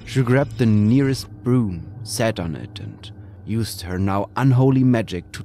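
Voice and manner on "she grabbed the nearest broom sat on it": ordinary delivery, nothing marked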